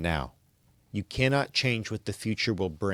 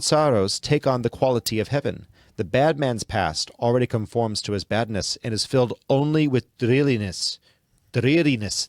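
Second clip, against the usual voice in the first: a light attempt at a Scottish accent, louder; 3 dB louder than usual. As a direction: read C.S. Lewis like a Scottish sage, trying the Scottish accent. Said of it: "I'm trying to get the Scottish accent".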